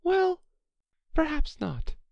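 high-pitched Alice placating the mouse; soothing. A narrator's reading. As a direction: concede it soothingly in a high character voice. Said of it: "said Alice in a soothing tone".

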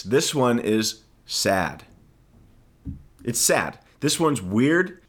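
slow, worn-out and unwell; feeling sick. Real, not acted. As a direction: drag it out like you feel awful. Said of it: "I feel like death".

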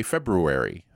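February with the first R fully sounded, Feb-ru-ary; over-enunciated. Shown as a demonstration. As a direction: enunciate every letter of "February". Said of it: "I like to enunciate things".

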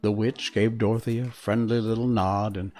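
reading a storybook aloud; gentle read-aloud narration; story narration. A narrator's reading.

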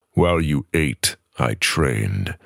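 rising, building defiance; defiant. Acted. The speaker reads Darrow's proud speech, defiant. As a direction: hammer each while and trained.

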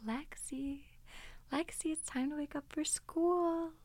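soft whispered call; gentle wake-up. Retold or imitated. Mom softly waking her daughter, whispered. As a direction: coax her awake gently. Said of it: "It would start off with".

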